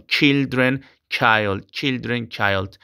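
put-on "children" CHIL-dren, "child" chaild with long i; contrast "children" and "child". Shown as a demonstration. Teacher contrasts singular and plural pronunciation for students. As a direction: say "children" then "child", stressing the vowel change. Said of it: "incluso en la pronunciación".

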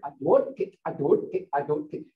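mock grumble I don't get, repeated; grumbling tone. Shown as a demonstration. Teacher showing how the clock sounds, low mock grumble. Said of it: "Hear my tone?".

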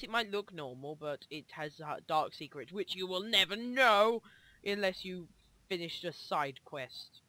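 soft, slow spooky tease; hint at a dark secret; mysterious hush. Acted. Teasing a mystery lore.

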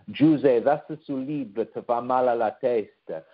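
lightly voiced Italian mother in Calabrian dialect; a mild Calabrian-dialect mother scolding her son; mom's Calabrian dialect. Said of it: "say in her Italian dialect".

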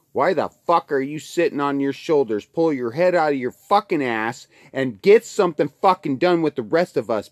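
loud, hard scolding; angry shout. Real, not acted. Scolding viewers to pull their heads out, loud shout. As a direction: bark it at them.

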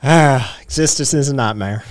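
put-on Southern accent. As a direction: sigh it out in a Tennessee Southern accent. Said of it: "that is where my Southern accent comes from".

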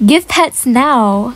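drawn-out, demanding Give pets now; slow, mock-entitled order; slow bossy demand. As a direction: stretch it out like a spoiled idol. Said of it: "I hope you guys know I'm joking".

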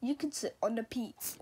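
whispered rhyme. Acted. Frog whispering a silly rhyme to the cat. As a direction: drop to a secret whisper.

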